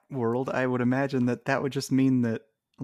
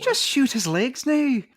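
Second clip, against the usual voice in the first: a hammed-up German accent, much higher and louder; mock German soldier barking the line; exaggerated German accent from the Vine; 12 semitones higher, 4 dB louder than usual. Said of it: "That's German, right?".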